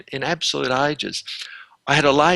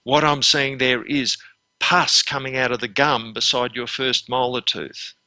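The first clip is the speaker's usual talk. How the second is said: measured clinical demo. Shown as a demonstration. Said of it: "you describe whatever you're seeing".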